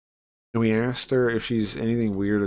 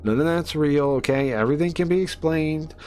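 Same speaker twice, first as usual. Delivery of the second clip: insistent skeptic; 4 semitones higher than usual. Acted. A skeptic scolding his scared friends, emphatic. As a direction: lecture them that science explains everything.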